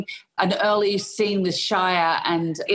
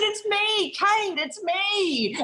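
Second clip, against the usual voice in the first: laughing plea; much slower than usual. Retold or imitated. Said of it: "Australian accent to Spielberg".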